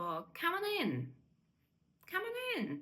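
"come on in" joined, each final consonant sliding into the next vowel; linked words. Shown as a demonstration. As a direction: say "come on in" as one word. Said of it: "Це от якраз наш цей варіант". (злито, без пауз між словами)

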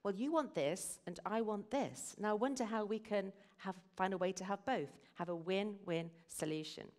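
open, curious, reaching for both; inviting the other to solve it together; friendly win-win tone; collaborative. Shown as a demonstration. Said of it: "We need to aim for win-win".

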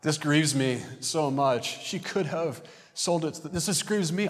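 mock aggrieved whine; acted grievance. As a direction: play up being wounded, pitch rising as you go. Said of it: "That's a narcissistic manipulation".

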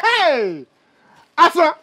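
loud, high cry of delight; delighted exclamation. Acted. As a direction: exclaim loudly with delighted appreciation. Delighted reaction to favorite meal surprise.

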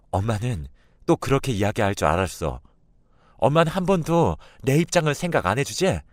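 hurt daughter lashing out at mother; upset daughter protesting. A narrator's reading. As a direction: build to an exasperated high complaint. Daughter argues, then storms out.

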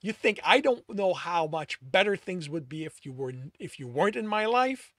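loud, high angry yelling; yelled back. A narrator's reading. Alex yells back at Tristan in thick anger. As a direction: hurl the words back in fury. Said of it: "Alex yelled back, his anger thick".

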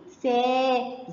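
"سا" with the aa held out; sustained phonics "سا"; long vowel. Shown as a demonstration. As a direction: stretch the alef in "سا" steadily. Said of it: "صوت طويل".

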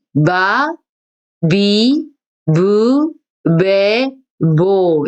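마, 미, 무, 매, 모 read slowly, one by one; voiced row. Shown as a demonstration. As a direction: model 마 미 무 매 모. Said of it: "이렇게 발음을 합니다".

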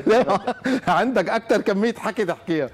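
teasing through laughter; laughing. Real, not acted. Host teases the guest about his anger, laughing. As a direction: let chuckles break into the words.

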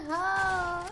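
very loud, high, tearful laughter; laughing. Real, not acted. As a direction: laugh till it hurts. Laughing hard.

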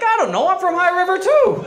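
high, loud, laughing through the words; laughing reply. Retold or imitated. Friend from High River answers, laughing and high. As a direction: blurt it out between laughs, pitched high.

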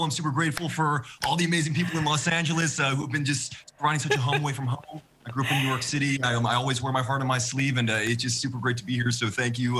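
put-on gushing young actor, fast in bursts; fast, gushing movie-star thank-you; Timothée Chalamet impression. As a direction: rush out the gratitude like an earnest young star. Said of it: "Timothée Chalamet".

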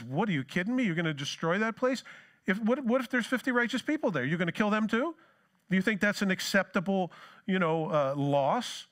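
Abraham balking, pitch jumping up; with some zeal. Retold or imitated. Abraham protesting to the Lord, zealous disbelief. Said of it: "with some zeal".

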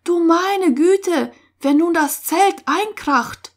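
high-pitched, fretful alarm; anxious. A narrator's reading. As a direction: wail with worry. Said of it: "immer ein bisschen ängstlich".

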